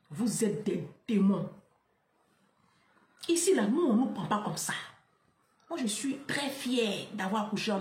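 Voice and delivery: ordinary delivery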